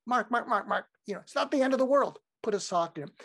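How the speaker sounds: high-pitched, affectionate mock scolding; loving. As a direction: talk a fretter down fondly. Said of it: "say it with such love".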